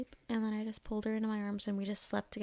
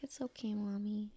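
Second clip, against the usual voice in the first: put-on higher, whispered little-girl reply; sleepy child whisper; 3 semitones higher, 5 dB quieter than usual. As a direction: whisper it back like a drowsy toddler. Sleepy daughter answers at bedtime.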